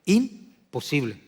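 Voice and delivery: Imposible drawn out very slowly, each syllable weighed, falling; slow emphatic imposible. Acted. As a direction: let Imposible land slow and final. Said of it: "no hace falta que explique".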